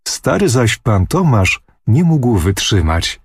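plain reading voice

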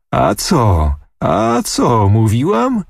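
put-on triumphant girl crowing over her hero; mildly ecstatic boasting; excited exclaiming. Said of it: "i wołać".

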